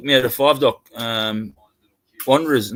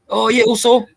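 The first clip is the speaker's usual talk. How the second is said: high, loud cheery bouncer yes; bouncer agreeing; 9 semitones higher, 6 dB louder than usual. Retold or imitated. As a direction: seal the deal with a big happy "also". Voices bouncer agreeing to bribe.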